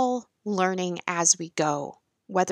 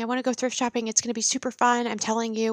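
higher, insistent repeat of the plea; nagging teen daughter; 4 semitones higher, faster than usual. Retold or imitated. A daughter pestering her mom again, mild nagging. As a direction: say it again like a kid who won't let up.

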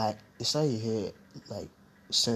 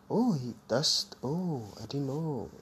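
higher, drawn-out "oh" of realisation; mock realisation; 4 semitones higher, slower than usual. Speaker replaying learning about Wayne's smoking, mock realisation. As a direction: act out a belated discovery. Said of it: "and I'm like".

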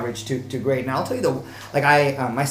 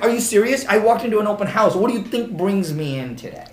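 higher, exasperated disbelief; be the fed-up buyer; a buyer sarcastically answering a pointless question; mock incredulous; 7 semitones higher, 3 dB louder than usual. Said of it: "I'm like".

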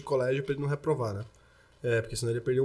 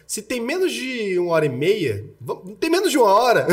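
laughing; 6 semitones higher, 6 dB louder than usual. Real, not acted. Joking about cut episode.

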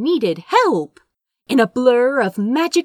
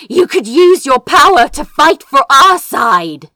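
loud, raised urgent appeal; loud plea; 4 semitones higher, 9 dB louder than usual. Acted. Lord Beals urging Crow to join her side, loud.

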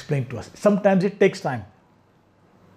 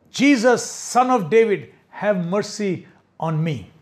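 mock shout. Blind Bartimaeus calling to Jesus, a mild mock shout. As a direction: call out to be heard over the crowd. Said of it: "He shouted".

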